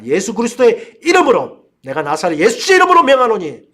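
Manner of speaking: loud exorcism command; commanding cry to cast out a spirit; demonstrated shout. Shown as a demonstration. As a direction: call out the rebuke with preaching force. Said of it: "이렇게 우리가 외치면 되는 것입니다".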